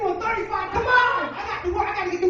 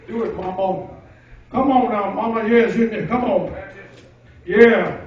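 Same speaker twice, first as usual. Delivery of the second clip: cheering mama on; 2 semitones lower, 8 dB louder than usual. Retold or imitated. Cheering mom sewing patches.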